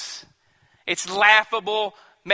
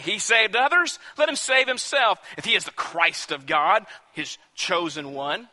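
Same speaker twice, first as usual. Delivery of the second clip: scoffing. Acted. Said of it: "They scoffed at him".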